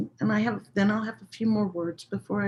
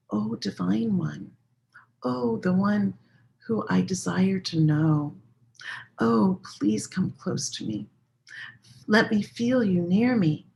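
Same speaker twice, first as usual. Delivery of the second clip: tender invocation. Shown as a demonstration. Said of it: "we're gonna use the prefix ya".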